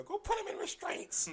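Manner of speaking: high-pitched hollered command; shrill-pitched retold yell; mock yelled order. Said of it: "hadn't yelled at this guy".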